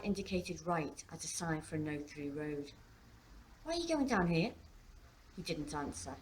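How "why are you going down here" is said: higher-pitched puzzled question; puzzled teenage daughter. A narrator's reading. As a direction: question dad in a higher girl's voice. Daughter questions dad's turning.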